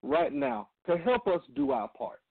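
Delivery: earnest, measured radio prayer. Acted. Leads opening prayer.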